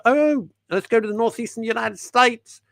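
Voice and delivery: high, loud cartoonish Northeastern American; fake northeastern US accent. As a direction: put on an exaggerated northeastern United States accent. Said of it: "I know they don't talk like that".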